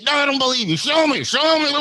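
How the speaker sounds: loud, very high imitated demand; mock goading yell. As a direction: hammer the demand, escalating and hammed-up. Voices her goading him to snap.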